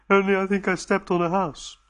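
whispered, sheepish admission; sheepish confession. Acted. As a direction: own up in a guilty whisper. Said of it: "looked as sheepish as a creature".

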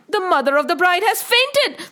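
startled town-crier alarm; alarmed announcement. Acted. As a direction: call out the shocking news. The alarming news is cried out.

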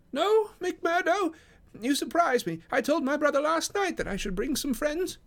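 very high-pitched, fussy little gentleman; Thaddeus Sholto. Acted. Guest answering the porter at the door, high-pitched character voice. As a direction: pitch it right up, mildly put out.

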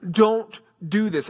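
a hint of desperate begging; pleading. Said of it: "she's pleading, she's begging him".

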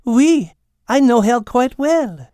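French cat, knowing. Acted. Cat answering the hummingbirds, knowing French accent. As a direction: say it slowly, keeping a secret. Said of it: "was all the cat said".

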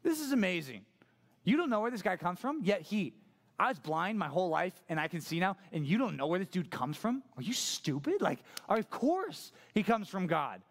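mildly exasperated astonishment; sassy disbelief. Acted. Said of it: "where sassy, sassy man gets really into it".

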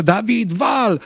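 retold coach yelling at the defender to shoot; coach's shout. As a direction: yell the name then the order, like a coach. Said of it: "trener krzyczy".

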